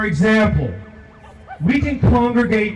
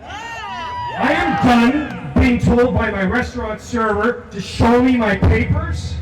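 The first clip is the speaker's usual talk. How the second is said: raised voice, pounding each "I am done"; rising rally cry; 3 semitones higher than usual. Real, not acted. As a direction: build the anger line by line. Angry "I am done" litany.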